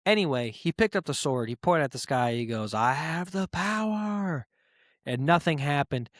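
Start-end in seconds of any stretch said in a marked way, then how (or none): 2.7-4.5 slow, higher, booming hero proclamation; He-Man hero cry. Retold or imitated. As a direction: bellow it like He-Man raising the sword. Repeat of He-Man pose.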